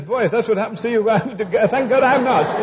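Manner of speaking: chuckling through the punchline, slowing right down at the end; laughing punchline. Retold or imitated. Preacher retelling a joke to his congregation, laughing as he delivers it. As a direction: let the laugh break into the words as you land the joke.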